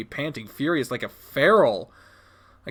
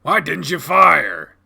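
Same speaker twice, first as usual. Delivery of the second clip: slow, loud, stern demand; stern scolding; 3 semitones higher, 6 dB louder, slower than usual. Acted. Dad confronting child over missed shot, stern scolding.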